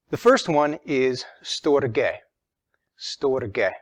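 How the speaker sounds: storge said slowly, stor-geh with a clear final e; Greek word storge. Shown as a demonstration. Teacher slowly says storge, stor-geh, for the class. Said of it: "it's written like this".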